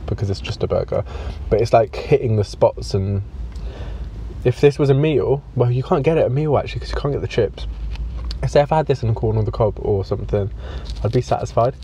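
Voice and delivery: speaking between bites; talking while chewing. Real, not acted. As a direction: mouth full of burger. Seen 2: Repeatedly bites the burger held at his mouth while speaking.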